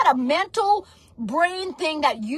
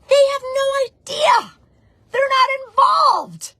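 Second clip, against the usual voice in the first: fired-up shout; 11 semitones higher, 5 dB louder than usual. Real, not acted. Preacher railing against a family who doubt her, high and loud.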